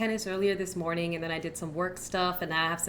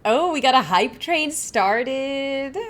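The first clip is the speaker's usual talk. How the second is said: excited; 6 semitones higher, 9 dB louder, slower than usual. Real, not acted. Hype train begins on stream.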